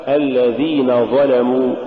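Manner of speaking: الذين ظلموا with thin dhal and lam; correct light pronunciation. Shown as a demonstration. Teacher models the correct phrase, light letters in الذين ظلموا. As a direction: keep الذين light before heavy ظلموا. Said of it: "الصواب".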